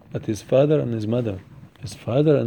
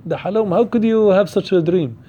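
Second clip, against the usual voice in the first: mild, higher-pitched mock rebuke; retold scolding; 4 semitones higher than usual. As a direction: imitate a father scolding his son. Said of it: "He was screamed at him that".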